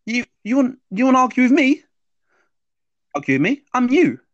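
high, loud taunting voice of his fears; mocking inner voice. Subconscious mocking the man in the lift, high and taunting. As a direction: sneer it back at him like his own fear. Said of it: "And he goes".

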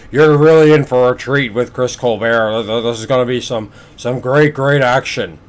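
lightly imitated commentator talking up a fight; a hint of a commentator's hype, starting emphatic; Joe Goossen hyping. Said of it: "the way that Joe Goossen was going on".

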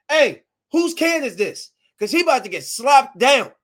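retold angry demand; retold going off. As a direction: call out across a crowd. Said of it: "I went off".

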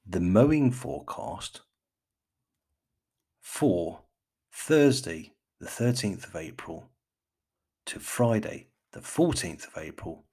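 measured BBC forecast reader; lightly put-on BBC announcer accent, headwords punched. Podcaster reads his first mowing forecast, mock BBC accent. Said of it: "put on my best B B C".

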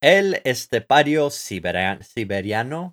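name said with a Spanish accent. Shown as a demonstration. Co-host helping with a drummer's name, Spanish accent. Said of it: "like, in a Spanish accent".

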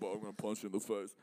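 lightly voiced movie boxer; a hint of Rocky in the voice; Sylvester Stallone impression. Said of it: "Sylvester Stallone is like".

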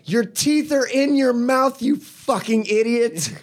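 high laughing yell; yelling at the brother through the phone, laughing; yelling through laughter. Retold or imitated. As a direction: shout it while cracking up. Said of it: "we both yelled".

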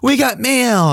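high, mock catchphrase call; TV show catchphrase. Recalling safari-hatted hosts announcing mail, high mock call.

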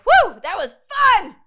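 high, loud, gleeful whoop; mock cheer. D types after an argument, a high mock whoop. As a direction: cheer like the fight was a party. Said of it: "they're like".

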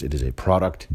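"product" leaned on with a rise; stress on product. Real, not acted. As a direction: weigh the word "product" with scorn. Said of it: "And I stress the word product".

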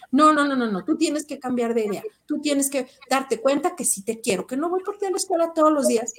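put-on steamroll the kid, rushing at the end; insistent mother. Mother talking over her son, insistent and rushing.

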